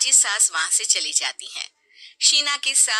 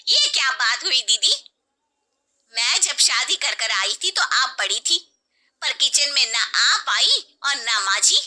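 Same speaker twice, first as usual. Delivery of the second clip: louder, offended complaint; indignant aunt; 4 semitones higher, 4 dB louder than usual. Acted. Aunt complaining to the elder sister-in-law, indignant. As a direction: protest the unfairness.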